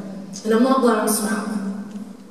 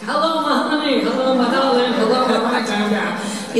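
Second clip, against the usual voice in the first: fake cheerful greeting. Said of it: "so I have to be like".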